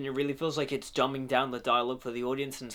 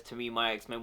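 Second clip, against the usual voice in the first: commanding Professor X; 4 semitones lower, 6 dB quieter than usual. Retold or imitated. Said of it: "the one exception ... when he says".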